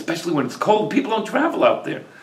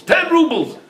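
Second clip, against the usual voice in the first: surprised echo; 11 semitones higher than usual. A narrator's reading. Buyer repeats the price back.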